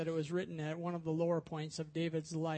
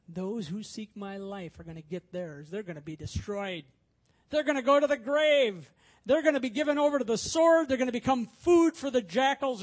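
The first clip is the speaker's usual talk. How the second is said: gloating vengeance; 3 semitones higher, 7 dB louder than usual. Shown as a demonstration. Preacher imagines David gloating over his enemies, building to loud triumph. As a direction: relish their downfall, getting louder as you go. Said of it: "you think he might be saying it like this".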